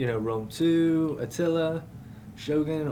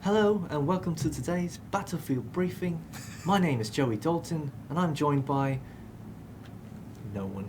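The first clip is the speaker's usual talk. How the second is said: higher, slow presenter voice; slow, grand host intro with a pitched-up lilt; Joey impression; 3 semitones higher than usual. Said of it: "That's my Joey impression".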